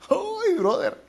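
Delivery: sudden high, loud "¡Uy, brother!"; a high yelp of wonder to the congregation; excited exclamation. Real, not acted. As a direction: burst out in amazed delight. Preacher exclaims after the verse.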